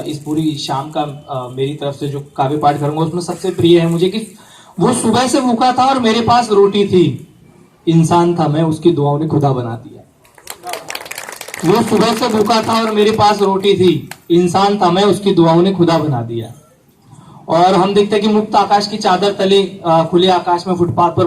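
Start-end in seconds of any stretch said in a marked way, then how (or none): 4.8-16.5 lifted first line, settling on the second; couplet recitation. Acted. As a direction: present the couplet to an audience. Recites favourite couplet twice. (शेर पढ़ने का अंदाज़)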